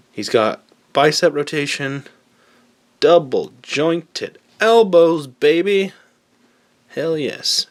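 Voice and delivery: high, loud hyped-up cheer; excited. Real, not acted. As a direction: gush about the toy with real excitement. Toy joints show off, hyped.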